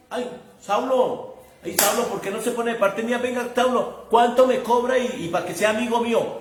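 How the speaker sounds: mock frightened pleading; a scared little voice, begging; timid whiny voice. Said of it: "no era así como todo asustadito".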